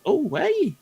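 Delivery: high, drawn-out cheer; celebratory cheer. Pretend. Player cheers their archer's released arrow, high celebratory whoop. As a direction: whoop it out as the shot goes.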